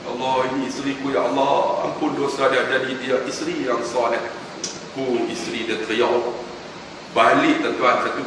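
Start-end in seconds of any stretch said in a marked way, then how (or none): 0.1-4.2 husband's tender prayer. Retold or imitated. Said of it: "Kemudian kucuk dahi isteri".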